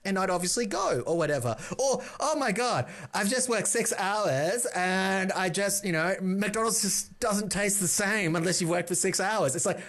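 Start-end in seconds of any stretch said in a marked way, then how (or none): 2.2-9.5 mock young self. Mocking his young self's posts.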